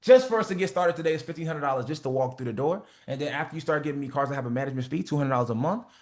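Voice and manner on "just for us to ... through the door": steady, certain price delivery; confident price. Shown as a demonstration. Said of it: "You said fifteen hundred like it was expensive".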